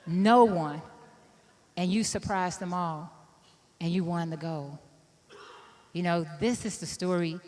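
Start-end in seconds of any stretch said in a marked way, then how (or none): 0.0-4.8 soft, tearful retelling to her brother; quietly moved words to a brother; retold crying. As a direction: speak softer, as if through tears. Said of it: "and I was crying".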